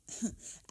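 small breathy chuckle; barely voiced, quiet huff of laughter; soft laugh. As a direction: laugh softly under the breath. Character reacts with a laugh.

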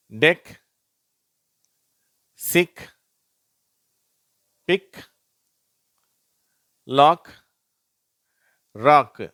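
"டெக், சிக், பிக், லாக், ராக்" loud, each ending in k; word-list demo. Shown as a demonstration. Teacher drilling CK words, "டெக், சிக், பிக், லாக், ராக்" loud and separate. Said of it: "அது இக்கு அப்படின்னு தான் உச்சரிக்கப்படுது".

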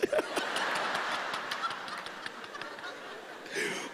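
airless wheezing laugh; silent breathy laugh. Real, not acted. Preacher laughing at her own story, breathy and silent. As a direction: laugh without voice.

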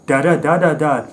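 lightly mocking rhythmic syllables; a hint of slam poet's beat, wordless; slam poetry cadence. Critic showing what poets could get away with, mock cadence. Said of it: "They could just get up there and go".

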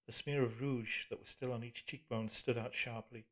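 ordinary delivery, nothing marked

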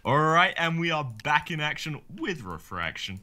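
energetic YouTube intro; hype intro line. Acted. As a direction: announce it like a channel catchphrase. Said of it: "So cringy".

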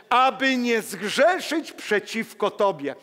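usual speaking voice

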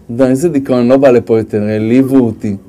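very low, monotone sulk; mock dejection. Insulted worker vowing not to come back, hammed-up low gloom. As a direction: drop the voice right down, comically crushed.

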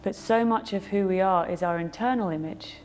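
calm guided-meditation delivery with long pauses; unhurried meditation guide, pausing after each thought. Acted. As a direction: lead them gently through a reflection, leaving space between phrases.

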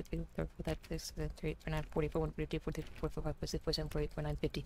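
low, very soft rapid count; quiet counting. Real, not acted. Player counting fifty clicks for the narrator, quiet and low. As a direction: count steadily under your breath.

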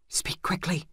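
urgent breathy whisper; hissed whisper. A narrator's reading. The healer urgently demanding news from the squire. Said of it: "she hissed".

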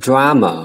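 drama said with a clear open a; teacher models drama. Shown as a demonstration. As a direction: stress DRA in drama, open a. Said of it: "drama là một âm A này ạ".

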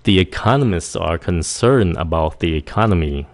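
economists run on with just an S ending; quick, simplified ending. Shown as a demonstration. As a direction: glide through "economists" without working the T. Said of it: "Nếu các bạn nói nhanh".

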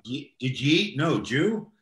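run-together New York speech; New York accent. Shown as a demonstration. Interviewer showing off his New York accent to guest. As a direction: slur the words together New York style. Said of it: "I speak like a New Yorker".

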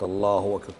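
"الله أكبر" with the final u of "الله" a little long; "Allahuu akbar", damma nearly a waw; slightly lengthened damma. Shown as a demonstration. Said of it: "لو شبعت الضمة شوي".

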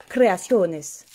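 "Creaciones" said the Spanish way, with a long o; Spanish accent. Shown as a demonstration. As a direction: roll out "Creaciones" like a Spanish speaker. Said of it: "On va le faire avec l'accent". ("Creaciones" avec l'accent espagnol)

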